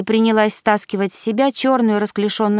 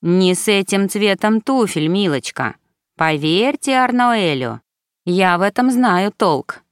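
lightly camp elf stylist; mannered. Acted. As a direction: coo it with a gentle camp affectation. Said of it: "жеманно произнёс он".

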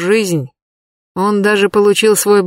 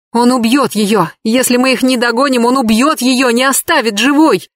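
desperate cry; 5 semitones higher, 3 dB louder than usual. Acted. Katya desperate after kidnapping.

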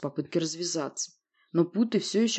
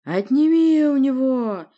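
loud, slow, high monster roar; monster's forceful bellow; roared order; 8 semitones higher, 8 dB louder, slower than usual. Acted. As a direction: roar the command, drawn out. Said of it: "непривычным рыком приказал Рыкенсторг".

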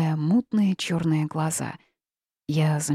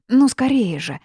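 higher, louder urging; urgent cry; 6 semitones higher, 8 dB louder than usual. A narrator's reading. Heroine begs the witch to hurry, urgently. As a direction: hurry her up, nerves fraying.

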